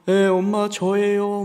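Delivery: slow, high, tearful voice; imitated crying son. Son on the phone, imitated sobbing. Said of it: "막 울면서".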